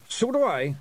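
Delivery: high, emphatic Scottish pixie; Rob Anybody. Acted. Pixie leader answering the girl's idea, emphatic Scots. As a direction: quip back sharply in Scots. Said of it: "said Rob Anybody".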